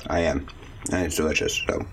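chewing while talking; words around a bite of cookie; mouth full. Real, not acted. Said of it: "I sound like I'm eating something".

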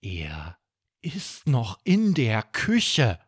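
langsam, gedehnt, leicht betont; Bummi antwortet. Acted. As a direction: ruhig und bedächtig antworten. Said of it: "antwortet Bummi". (Bummi antwortet bedächtig)

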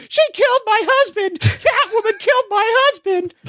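high, shrill-pitched fake hysterical shriek; hammed-up wail of a fake grieving wife; mock scream. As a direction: scream it like a framed victim crying murder. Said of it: "she just starts screaming".

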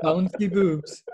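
slow, laughing. Real, not acted. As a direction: chuckle through it. Joking, laughing.

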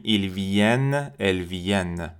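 "viennent" as vyen, with a sounded n; slow "viennent" closing on a held n; "viennent" with open e, like feminine iranienne; non-nasal ending. Shown as a demonstration. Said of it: "مثل حالت فمینن ناسیونالیته میمونه".

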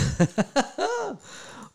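high-pitched burst of laughter; real amused laughter. Real, not acted. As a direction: crack up at the pun. Laughs at chat pun.

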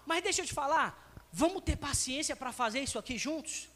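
put-on a loving father coaxing his child; encouraging parent. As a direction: build the son up gently. Encouraging parent, contrasted with scolding.

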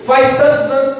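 mild resentful hurt, stressing tantos; a hint of bitterness, leaning on tantos; rancor na voz. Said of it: "o rancor na voz dele?". (leve mágoa e rancor, acentuando tantos)

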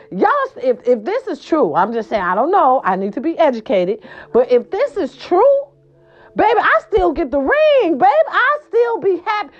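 high, excited protest. Real, not acted. Excited vlogger insisting Super Bowl losers still get rings. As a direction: insist gleefully you still get the ring. Excited rant about getting ring.

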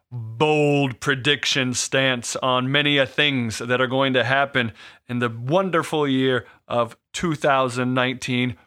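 slow, grand segment announcement; announcer intro. Acted. Host opening the predictions segment, slow announcer voice. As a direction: announce the new segment like a show opener.

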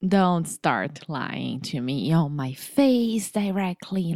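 slow, playful telling-off; mock scolding. Co-host calls out Foster's teasing, mock scolding. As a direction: scold teasingly, dragging the words.

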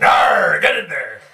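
gruff pirate captain growl. Acted. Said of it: "Now I sound like a pirate captain".

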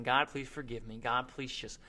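soft, humble plea to God; humble quiet prayer. Retold or imitated. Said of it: "just praying to God, saying".

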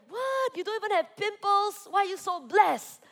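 high, incredulous gasp of envy; mock disbelief. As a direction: act amazed at the flawless skin. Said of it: "I'm like".

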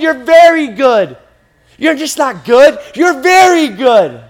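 high, loud, drawn-out praise; emphatic praise. Acted. God speaking when he created you, emphatic praise. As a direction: declare it like a proud father. God's verdict acted with force.

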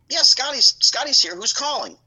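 hollering toward the bedroom; dad calling out. Retold or imitated.

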